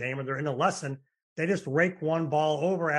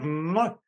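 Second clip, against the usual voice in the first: kiss sound. Shown as a demonstration. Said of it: "We gotta make the Kiss sound".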